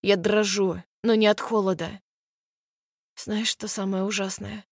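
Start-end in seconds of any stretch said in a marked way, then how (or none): 3.2-4.6 much softer tearful question; quiet, choked with tears. Acted. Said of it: "Тихо говорю, задыхаясь от слёз". (тихо, задыхаясь от слёз)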